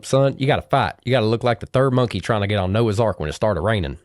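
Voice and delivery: lightly imitated Southern accent; granddaddy advising his son in a mock Southern accent; borrowed Southern accent. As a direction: deliver a folksy pep talk in a put-on Southern twang. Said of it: "pitch 'em in, in your accent".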